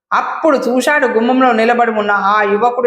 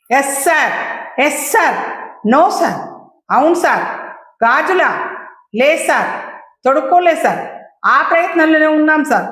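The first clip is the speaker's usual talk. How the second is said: mildly nervous, a bit higher, to his boss on the phone; a touch of panic, eager to please; lightly flustered yes-sir answers; 4 semitones higher than usual. Acted. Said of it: "ఎగిరిపోయి కంగారు చోటు చేసుకుంది".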